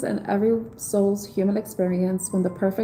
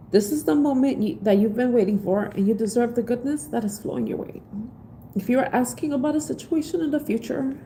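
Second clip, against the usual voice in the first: tearful reading. Real, not acted. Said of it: "Let me stop it".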